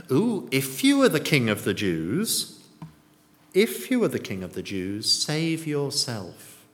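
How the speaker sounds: lightly acted taunt opening on a mock "ooh"; mild mocking. Soldiers taunting the crucified king, mildly mocking. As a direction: tease him with a touch of scorn. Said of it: "The soldiers mocked him".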